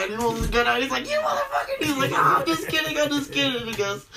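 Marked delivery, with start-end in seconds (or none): 1.1-1.8 very high-pitched retold exclamation; mock outburst. Retelling the Goodfellas gun gag, mock outburst. 2.1-3.7 playful backtrack. Retold or imitated. Retelling the joke's reveal.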